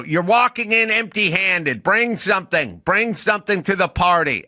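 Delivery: lightly voiced scolding coach; stern acting teacher. Teacher scolding a student, mildly stern. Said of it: "She'd go".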